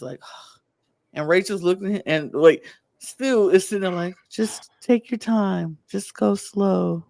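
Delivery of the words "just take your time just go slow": patient coaching. Retold or imitated. Rachel coaching struggling Sam, retold.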